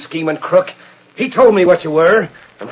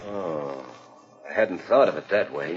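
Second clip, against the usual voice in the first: much softer, lower, deflated; taken aback; 12 semitones lower, 12 dB quieter than usual. Acted. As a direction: let the wind out, thoughtful. Blake taken aback, reconsidering.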